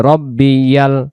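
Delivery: slow "রব্বি ইয়াল" for students to echo; repeat after me. Shown as a demonstration. Teacher leading students to repeat with him. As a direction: say "রব্বি ইয়াল" slowly for the class to follow. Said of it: "আমার সাথে সাথে".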